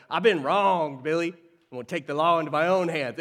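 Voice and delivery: lightly hammed-up Western gunslinger; mock cowboy. Preacher mimicking a wronged cowboy from old Westerns, lightly hammed-up. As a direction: play the wronged cowboy, half in jest.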